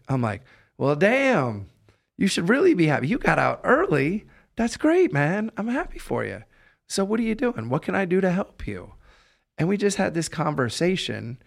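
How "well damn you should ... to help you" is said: higher, louder, bursting with excitement; enthusiastic cheer. Retold or imitated. Cheering up a man just out of prison, excited and loud. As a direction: pump him up with all the energy you have. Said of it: "I was giving all of the energy, all of the enthusiasm".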